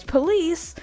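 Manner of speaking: very high, slow, cartoon villain sneer; Cruella taunt. Cruella glancing in her mirror at the police, in a high slow campy taunt. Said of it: "she goes".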